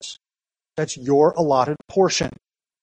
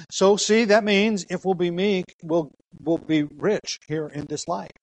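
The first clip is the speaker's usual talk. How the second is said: higher, slow, gently mocking prosperity-preacher pitch; 3 semitones higher, slower than usual. Pastor mimicking how prosperity preachers sell it, mildly mocking. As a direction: lightly parody the prosperity preacher's promise. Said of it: "That's how that's often preached".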